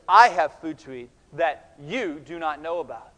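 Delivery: "I" and "you" leaned on emphatically; stress on I and you. Shown as a demonstration. Preacher shows the Greek emphasis, stress on I and you. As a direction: set "I" against "you" with firm stress. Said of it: "these are all emphatic".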